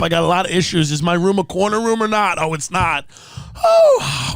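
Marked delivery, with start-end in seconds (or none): 3.6-4.3 high squeaky oh of shock; mock surprise. Hotel guest discovering no corner room, mock surprise. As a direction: yelp it out in fake surprise.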